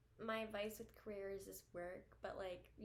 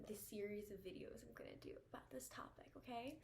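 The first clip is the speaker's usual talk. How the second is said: whispered aside; 6 dB quieter than usual. Real, not acted. Quiet aside mid-sentence.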